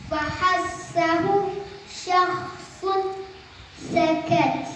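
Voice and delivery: fahassahu syakhsun sakat slowly, letting breath flow through the consonants; hamas with breath. Shown as a demonstration. Teacher reciting the hamas letters phrase, slow with released breath. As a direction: draw out the s sounds of fahassahu and release sakat on air. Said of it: "artinya keluar disertai nafas".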